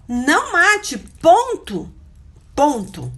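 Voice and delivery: high, loud "Não mate, ponto", every word stamped; preaching insistence; emphatic declaration. Acted. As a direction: slam the law down like a full stop.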